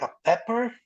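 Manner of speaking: high, rising questioning echo; puzzled echo. Retold or imitated. Waiter questions the diner's odd order, puzzled and rising. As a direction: query it back in disbelief.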